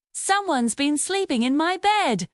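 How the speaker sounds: a hint of a tiny excited whisper; loud tiny whisper. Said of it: "In a loud, teeny tiny whisper, he shouted".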